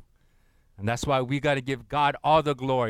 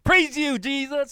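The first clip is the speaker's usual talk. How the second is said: talking stones; 10 semitones higher, 4 dB louder than usual. Pretend. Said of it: "these stones out here, they're gonna imagine".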